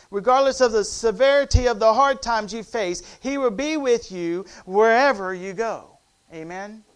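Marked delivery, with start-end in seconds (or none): 0.1-5.9 loud, emphatic preaching; forceful sermon delivery. Acted. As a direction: drive the promise home to the congregation.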